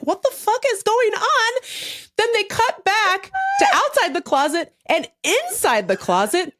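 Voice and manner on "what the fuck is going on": higher, bewildered retelling; baffled at the screen; retold disbelief. Watching the weird closet reveal, mock bewildered. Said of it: "And I'm like".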